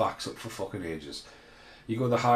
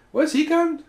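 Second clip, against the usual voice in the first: high, loud cry of disbelief; retold outraged yell; 8 dB louder, slower than usual. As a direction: yell it at the speeding driver. Retold road rage in car.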